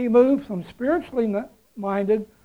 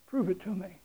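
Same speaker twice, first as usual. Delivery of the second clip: mock challenge; 8 dB quieter than usual. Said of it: "As if to say".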